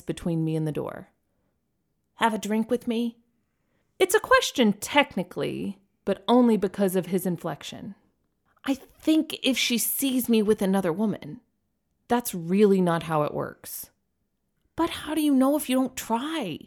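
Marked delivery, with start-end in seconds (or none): 2.2-3.2 Ken voice. Acted. Narrator voicing Ken. 8.6-11.4 Ken voice. Acted. Narrator voicing Ken. 14.7-16.6 Ken voice. Acted. Narrator voicing Ken.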